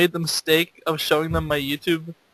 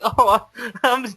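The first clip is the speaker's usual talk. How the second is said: drawn-out, higher awkward introduction; slow, self-mocking awkward reply; 4 semitones higher, slower than usual. Telling a girl his name at school, awkwardly. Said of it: "I was so awkward".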